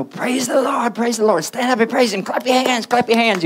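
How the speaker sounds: high, loud hyped-up church call; mock worship leader. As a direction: parody a worship leader whipping up the crowd. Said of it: "we have our choirs and we say".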